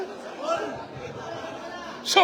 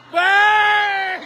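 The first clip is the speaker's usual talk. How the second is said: higher shouted "Bang!" call; 4 semitones higher than usual. Real, not acted. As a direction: yell it as the shot drops. Calling a made shot.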